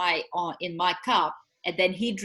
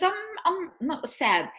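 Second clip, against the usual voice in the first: mimicking son; 9 semitones higher than usual. Son retold, high pitch.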